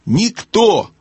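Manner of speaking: high-pitched moderate shout; owl's cry. A narrator's reading. Owl answering a deaf gnome, crying out. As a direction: call it out high for deaf ears. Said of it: "прокричала сова".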